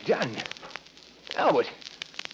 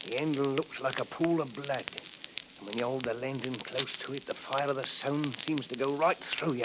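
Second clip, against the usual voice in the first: hushed, spellbound murmur; lost in the knife's glow; entranced; 3 semitones lower, 6 dB quieter than usual. Acted. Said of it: "Henry, what's come over you?".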